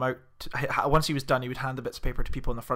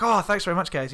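higher-pitched imitation Californian; Californian accent; 4 semitones higher than usual. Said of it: "like, very strong accent".

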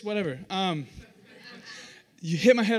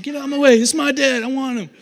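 put-on high, loud childish demand; pushy excited child; 6 semitones higher, 10 dB louder than usual. Kid to siblings while running to Dad, pushy. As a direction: shove the others aside with your voice.

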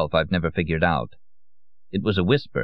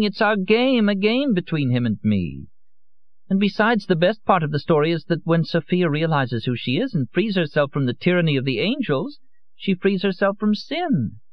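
high, airy voice, slowing at the end; a drunk woman playing a goddess; tipsy Lorenza; 11 semitones higher than usual. A narrator's reading. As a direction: lecture him dreamily on her game. Lorenza's voice in the story.

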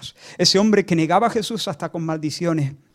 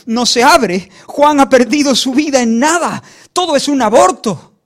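loud, high, impassioned preaching; preaching at full force; 8 semitones higher, 11 dB louder than usual. Real, not acted. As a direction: drive each point home, building to a cry.

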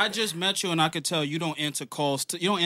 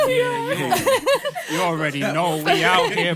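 hype shout; 3 semitones higher, 7 dB louder, slower than usual. Real, not acted. Hype podcast entrance.

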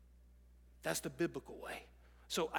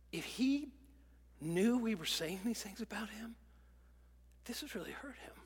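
loving; 3 semitones higher than usual. Shown as a demonstration. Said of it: "the loving and the caring way".

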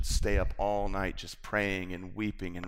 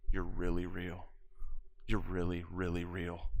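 a hushed stunned murmur, much softer; astonished quiet murmur of discovery; awed murmur; 3 semitones lower, 7 dB quieter than usual. Retold or imitated. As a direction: whisper it in disbelief. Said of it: "I'm freaking out and I'm going".

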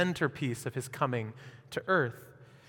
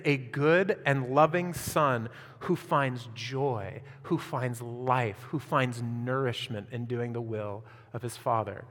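tender and slow; 5 semitones lower, 4 dB quieter, slower than usual. Real, not acted. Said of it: "slow tender description of son".

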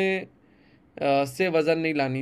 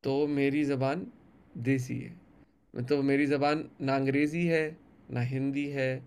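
poem recitation; 2 semitones lower than usual. Acted. Poet reciting his poem to the interviewer, measured recital.

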